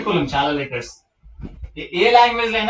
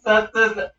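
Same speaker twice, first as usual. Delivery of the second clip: trying త, త, ద while holding the tongue; broken-off త, త, ద, tongue tip unable to touch; tongue held; 3 semitones higher, slower than usual. Shown as a demonstration. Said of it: "నాలుక పట్టుకొని". (నాలుక పట్టుకొని త, త, ద)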